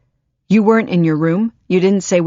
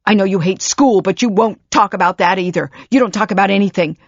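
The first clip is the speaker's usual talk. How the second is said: anguished tirade; 3 semitones higher, 5 dB louder than usual. Acted.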